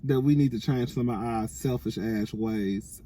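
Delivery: words round a retainer; wearing a retainer. Real, not acted. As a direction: talk with a retainer in. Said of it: "I got my retainer in".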